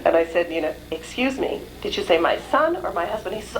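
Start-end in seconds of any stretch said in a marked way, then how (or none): 0.9-3.3 stunned disbelief. Retold or imitated. Stunned question to the friend.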